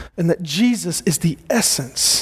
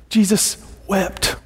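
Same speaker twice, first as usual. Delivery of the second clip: emphatic declaration; 3 semitones higher, slower than usual. Real, not acted. Pastor proclaiming to the church, slow and forceful. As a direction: land it like a proclamation. Climax of the sermon point.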